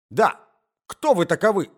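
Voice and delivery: put-on old husband picking up the shout; husband chimes in. A narrator's reading. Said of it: "подхватил муж".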